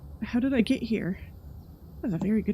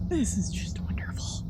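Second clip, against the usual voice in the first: sarcastic whisper; 4 dB quieter than usual. Real, not acted.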